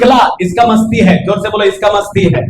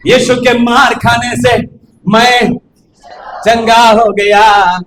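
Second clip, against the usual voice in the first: mock testimony; much slower than usual. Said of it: "नाटक कर".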